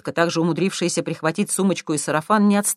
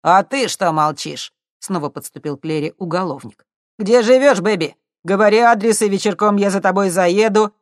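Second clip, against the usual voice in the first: pushy come-on; 4 semitones higher, 7 dB louder than usual. A narrator's reading. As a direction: press her for an address. Thug pressing on girl. (нагло, громко)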